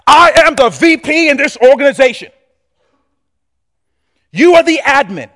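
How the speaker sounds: loud, high, self-important VP barking orders; loud bossy executive shouting for coffee; arrogant boss. Acted. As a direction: lord it over the assistant, demanding. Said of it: "bossy VP to the admin".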